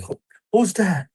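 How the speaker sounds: half-awake wife woken by the phone; sleepy wife. Retold or imitated. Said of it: "My wife will be like".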